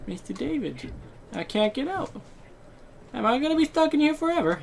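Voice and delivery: put-on small scared kid voice, quiet and high; mock child pleading; child Fluffy voice. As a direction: play a frightened little boy.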